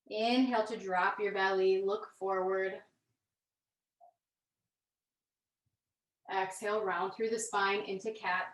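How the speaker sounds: calm, measured yoga-class delivery with long pauses; guided yoga instruction. Real, not acted. Yoga teacher leading students through gentle movement, calm guided instruction.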